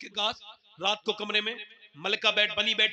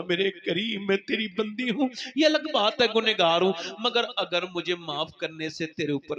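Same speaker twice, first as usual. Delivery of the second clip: crying plea; 4 dB louder than usual. Acted. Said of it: "रो के बोली".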